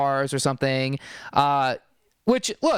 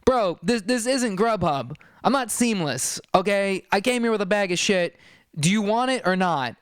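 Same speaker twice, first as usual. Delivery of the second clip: exasperated seller; 4 semitones higher than usual. Retold or imitated. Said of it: "And the guy's like".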